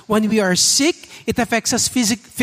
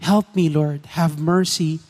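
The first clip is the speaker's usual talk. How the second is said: heartfelt prayer; 4 semitones lower than usual. Pretend. Voices listener's heartfelt prayer.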